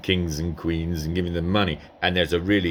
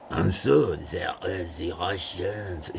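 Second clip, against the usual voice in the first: slow French-accented English; lightly voiced French emperor; slower than usual. Shown as a demonstration. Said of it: "instead of".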